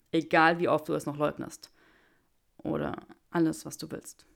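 Draco's voice. Acted.

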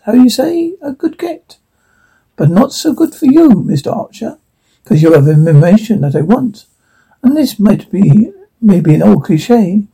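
put-on menacing interrogator with a Russian accent. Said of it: "man in Russian accent".

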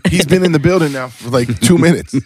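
words through laughter; laughing while talking. Real, not acted. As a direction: talk while still laughing.

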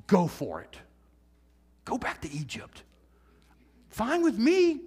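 lightly voiced sarcastic God shrugging them off; mock fed-up God. God telling grumblers to leave, mild sarcasm. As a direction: wave them away, half-mocking. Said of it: "expecting God to tell them".

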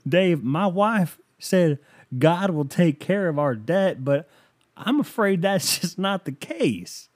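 high, slow, drawn-out caller voice; earnest mock lament, laugh slipping in; pleading caller. Caller doubting wife's faith, hammed-up pleading.

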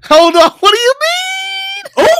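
high, loud laughing disbelief. Real, not acted. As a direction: laugh through the words. Bursting out laughing at friend.

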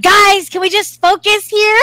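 high, loud call for order; exasperated plea. Retold or imitated. Gamer to bickering brother and sister, exasperated plea. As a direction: plead over the squabbling.

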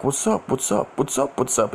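rapid repeated challenge, stepping down in pitch; mock posturing. Shown as a demonstration. Showing the posturing his friend didn't do, mock challenge. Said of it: "It wasn't no posturing".

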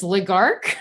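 name said backwards, laughing; backwards speech. Acted. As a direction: try the name reversed, half laughing. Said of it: "I'm gonna say it backwards".

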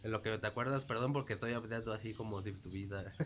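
talking with a stuffy nose; nasal, congested speech; blocked nose. Real, not acted. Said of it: "Como si tuviera catitos".

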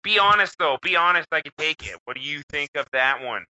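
a hint of a keen designer begging for honest feedback; mock eager designer. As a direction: pitch the silly logo proudly, fishing for praise. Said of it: "That's my favorite one that I came up with".

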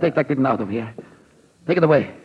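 rising panic, pushing the kitten away; frightened demand. Acted. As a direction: get that thing away from me.

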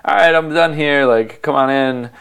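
mildly excited, calling someone in. Retold or imitated. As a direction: lift the pitch, acting all excited. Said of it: "Super Special's all excited".

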